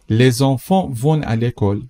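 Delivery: slow, careful example sentence; slow model read. Shown as a demonstration. Teacher models the sentence slowly for the class. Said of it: "teacher models slowly".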